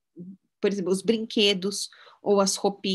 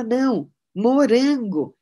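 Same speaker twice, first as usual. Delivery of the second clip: put-on insistent toddler; 5 semitones higher, 6 dB louder, slower than usual.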